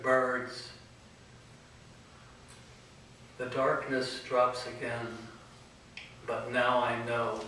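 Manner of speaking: measured poetry reading with weighty pauses; poem recitation. Acted. Poet reciting verse to an audience, measured poem recitation. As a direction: recite it solemnly, phrase by phrase, letting line ends hang.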